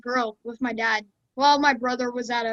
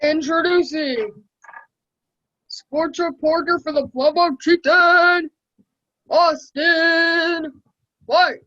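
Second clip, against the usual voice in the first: drawn-out ring announcer intro, slightly raised; boxer announcer voice; 2 semitones higher, 3 dB louder, slower than usual. Pretend. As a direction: announce him like a boxing match. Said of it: "I'm trying to do my best. You know that, like, boxer voice?".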